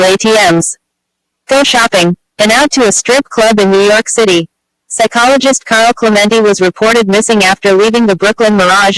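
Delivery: even, steady news report; news read. A narrator's reading. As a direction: read it out as a measured news item. Reads the news story.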